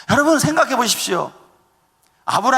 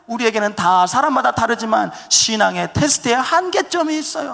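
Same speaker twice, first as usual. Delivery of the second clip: normal talking voice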